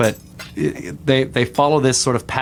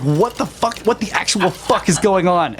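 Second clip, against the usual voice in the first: high, slow bewildered cry; lost in the chaos of the dream; 9 semitones higher than usual. Retold or imitated. Brother retelling the dream, crying out in bewilderment. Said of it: "And I'm just like".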